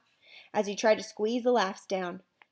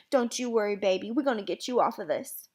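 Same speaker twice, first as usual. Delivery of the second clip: shaky Southern. Acted. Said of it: "her voice was so shaky and southern".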